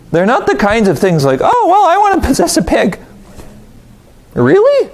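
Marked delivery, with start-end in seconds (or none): 1.4-3.0 laughing high mock voice for the demons; mock eager demon. Preacher mocking demons wanting pigs, laughing high voice. 4.3-4.9 high disbelieving really; incredulous. Real, not acted. Preacher doubting the demons' choice, high incredulous.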